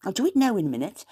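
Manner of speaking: quick, lilting South Wales Wenglish; South Wales Welsh-English lilt; Wenglish phrase. Shown as a demonstration. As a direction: rattle off "I'll do it now in a minute" like a Valleys local. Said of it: "but we say".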